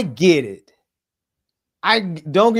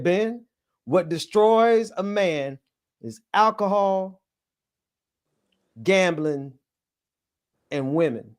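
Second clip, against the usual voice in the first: lightly preacherly quote, slow with long pauses; granddaddy's preaching; slower than usual. Retold or imitated. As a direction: pass on granddad's warning in measured cadence.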